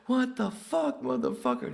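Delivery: high loud laughing curse; laughing outburst. Retold or imitated. Producer laughing at the comedian, high loud laughing curse. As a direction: swear through laughter. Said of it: "He's laughing, though".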